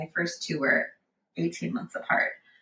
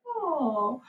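startled oh; 8 semitones higher, 4 dB quieter than usual. Retold or imitated. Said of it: "I'm like".

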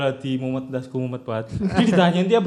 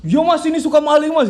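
put-on high, loud childish tattle; tattling kids; 10 semitones higher, 5 dB louder than usual. Other kids telling the shopkeeper, high tattling voice. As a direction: tell on him like an eager kid.

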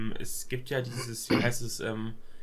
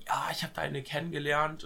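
whispered mock quote of a smitten friend; imitating a friend; 3 semitones higher than usual. Friend confiding he met a girl, whispered. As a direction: breathe it like a secret crush confession.

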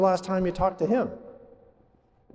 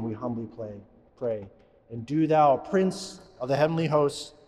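recited prayer. Acted. Priest praying the Saint Michael prayer aloud, earnest and reverent.

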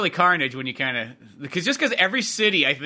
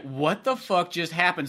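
stunned; 4 dB quieter, slower than usual. Retold or imitated. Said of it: "you were so like".

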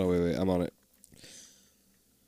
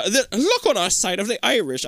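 higher-pitched mock Irish lilt; bad Irish accent; 4 semitones higher than usual. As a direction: have a clumsy go at an Irish accent. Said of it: "how to fucking do an Irish accent".

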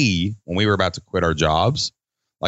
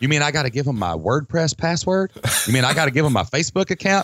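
higher-pitched mock disbelief at being asked; mock incredulous; 4 semitones higher than usual. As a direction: imitate a balking client, pitched up. Mimics clients balking at sharing passwords.

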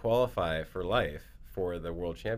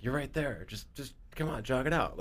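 excited; 7 semitones higher than usual. Retold or imitated. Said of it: "He got excited".

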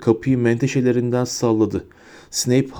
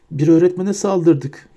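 higher, slow moan on öğretmene; a first dazed moan, "öğretmene" stressed; 5 semitones higher, slower than usual. A narrator's reading. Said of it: "diye inliyordu".

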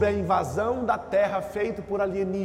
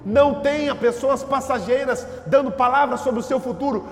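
higher, emphatic sermon delivery; raised-voice preaching; 5 semitones higher, 4 dB louder than usual. Real, not acted. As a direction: exhort the congregation with raised pitch. (pregação enfática, em tom elevado)

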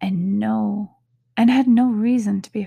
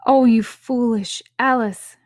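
a louder, lightly voiced scolding of herself; mild self-scolding; 3 semitones higher, 7 dB louder than usual. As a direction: tut at yourself with a raised voice. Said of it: "she answered herself".

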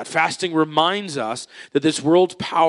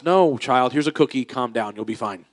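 soothing parent; 2 semitones lower than usual. Retold or imitated. Parent soothing child with cookie.

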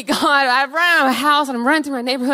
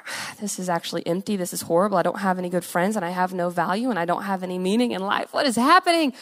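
low, much softer, hollow despair; 6 semitones lower, 5 dB quieter, faster than usual. Retold or imitated. A girl realizing her drug life is empty, low and soft. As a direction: let it sink low and quiet as it empties out.

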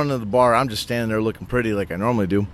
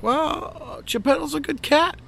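innocent high voice. Retold or imitated. Playing innocent about the cat.

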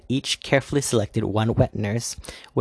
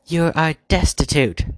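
higher and louder, shouting; 7 semitones higher, 7 dB louder than usual. Acted. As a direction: White Queen shouting insults at the Dark Queen, a real shout. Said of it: "voice rose to a shout".

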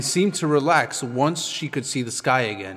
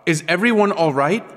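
concerned question; 5 semitones higher, 4 dB louder than usual. A narrator's reading. Ruto checks on the group.

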